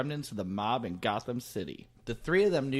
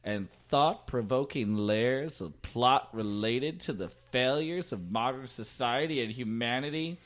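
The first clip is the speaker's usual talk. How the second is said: 1940s newscaster. Acted. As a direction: announce it like a 1940s newsreel. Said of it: "your nineteen forties newscaster voice".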